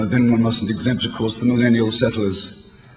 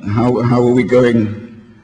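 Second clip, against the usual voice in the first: throat catching; 5 dB louder, slower than usual. Real, not acted. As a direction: voice catching before a cough. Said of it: "I have to cough for a little bit".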